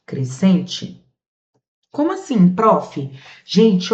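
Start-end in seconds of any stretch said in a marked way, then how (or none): 1.9-3.1 lightly voiced student, high start falling away; puzzled student. Pupil interrupts the teacher to ask, puzzled student. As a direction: act out a confused pupil's question.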